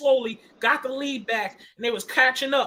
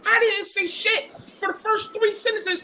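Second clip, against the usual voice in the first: upset, near tears; 4 semitones higher than usual. Real, not acted. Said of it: "Rave, you better not start crying".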